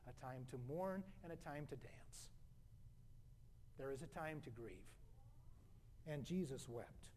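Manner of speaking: hushed, low pastoral tenderness; solemn comfort. Real, not acted. Preacher consoling grieving Christian friends, solemn and hushed. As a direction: drop low and soft, leaving long pauses. Comforting mourners, Jesus wept.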